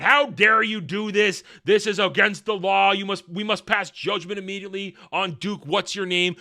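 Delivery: hammed-up imperial fury; mock scream. Empress screaming at the court, mock outrage. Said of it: "is screaming about".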